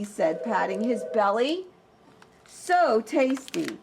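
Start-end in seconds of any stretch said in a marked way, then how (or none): 2.5-3.8 slow, relishing wolf; satisfied wolf. Acted. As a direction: savour every word. Wolf savours his meal.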